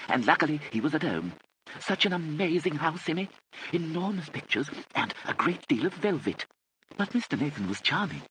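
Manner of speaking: high-pitched rambling aunt's voice; fluttery aunt, rambling. Acted. Aunt Kit explains her late return, fluttery rambling. Narrator voices Lady Catherine.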